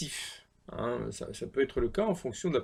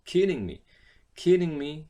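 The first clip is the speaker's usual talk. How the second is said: loud disbelief; 3 semitones higher, 6 dB louder than usual. Shown as a demonstration. Demo, louder.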